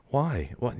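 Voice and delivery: baffled. Retold or imitated. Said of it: "I'm like".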